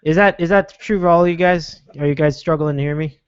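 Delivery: muffled underwater phone line. Real, not acted. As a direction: voice sounds like under water. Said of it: "you sound like you're in underwater".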